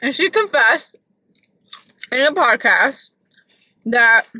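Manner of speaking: talking with a mouthful of food; mouth full. Real, not acted. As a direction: speak around a bite. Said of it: "so I'm talking with my mouth full".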